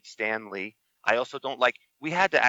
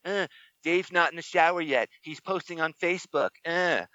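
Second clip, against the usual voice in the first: reading friend's message; 6 semitones higher than usual. Retold or imitated. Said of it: "I'm reading it".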